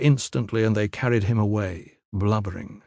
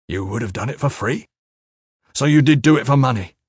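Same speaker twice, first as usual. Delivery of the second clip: incredulous question, then louder accusation; aggrieved disbelief; 3 semitones higher, 4 dB louder than usual. A narrator's reading. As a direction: repeat it back in disbelief, then press the point. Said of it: "aggrieved, disbelieving".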